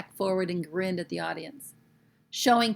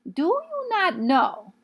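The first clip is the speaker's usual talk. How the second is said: mock shout; 11 semitones higher, 7 dB louder, much slower than usual. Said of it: "she shouted at them".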